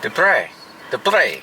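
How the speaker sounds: name said with a slight Spanish twang. Shown as a demonstration. Husband showing wife how he says his name, slight Spanish twang. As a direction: say Dupre with a light Spanish lilt. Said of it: "like it's a little Spanish twang".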